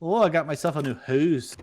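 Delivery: put-on Canadian with oo in "who's"; joking Canadian accent; mock Canadian accent. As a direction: play a Canadian showing off. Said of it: "Canadians say who's".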